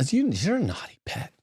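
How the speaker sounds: high mocking put-on voice. Mocking the priest in a silly high voice. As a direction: tease him in a silly high voice. Mock voice aimed at James Martin.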